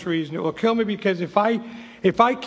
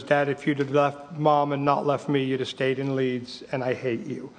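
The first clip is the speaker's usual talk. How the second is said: retort to dad; 4 semitones lower than usual. Retold or imitated. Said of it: "my position was".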